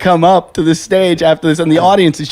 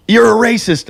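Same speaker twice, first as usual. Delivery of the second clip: higher, mildly outraged accusation; imitated indignation; 8 semitones higher, 3 dB louder than usual. MC scolding the caller before the crowd, mock-indignant. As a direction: act out an offended MC scolding. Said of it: "And Julian goes like this".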